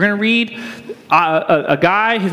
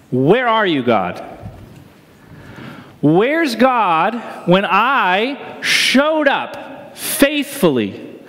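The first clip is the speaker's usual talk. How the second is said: pleading question; much slower than usual. Acted. Preacher voicing anguished questions.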